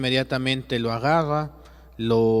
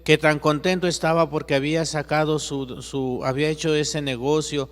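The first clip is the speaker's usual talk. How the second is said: angry protest; 4 semitones higher than usual. Acted. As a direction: fight back against the answer. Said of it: "Y le dice Juan". (Juan protesta ante Jesús, indignado y en voz alta)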